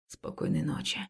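voiceless goodnight whisper. Acted. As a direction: whisper it gently. Man says goodnight in bed.

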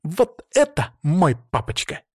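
slow, smug and proud; self-satisfied little girl; pleased. Acted. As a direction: savor it, nose in the air. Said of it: "довольно вздёрнула нос".

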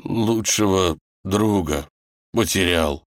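slow, halting lament; mournful. Acted. Wolf grieves for his fallen friend, mournful. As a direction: pause mid-phrase as if choking up. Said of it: "шмыгнул носом".

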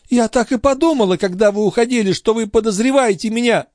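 put-on high, fast fussing old woman; mock-innocent old concierge. A narrator's reading. The concierge pretending not to know where the watch went, high and fussy. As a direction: play dumb, all fluster.

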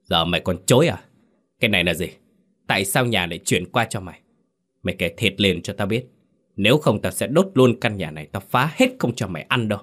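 put-on a touch of a furious older brother; understated angry rebuke; angry scolding. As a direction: snap the threats out quickly. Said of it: "tức giận ... mà nạt".

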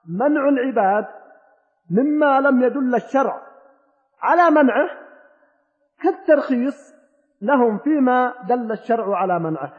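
slow, deliberate repeat of the rule; slow restatement. Shown as a demonstration. Teacher slowly repeating the rule for students, deliberate. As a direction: spell the rule out word by word. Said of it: "أعيد القاعدة".

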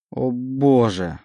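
slow, stretched anguished plea; pleading despair. Acted. Oleg begs God in anguish, slow. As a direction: beg in despair. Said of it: "взмолился Олег".

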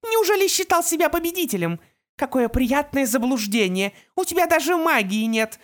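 high, loud gloating taunt; gloating villain. A narrator's reading. Opal taunts Artemis in triumph, high and loud.

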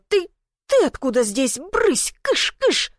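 high squealing shoo at the cat; shrill squeal. A narrator's reading. Lena squeals, shooing the stray cat away. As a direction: shriek at the cat to get out. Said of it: "Лена взвизгнула".

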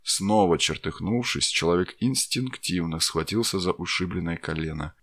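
ordinary delivery

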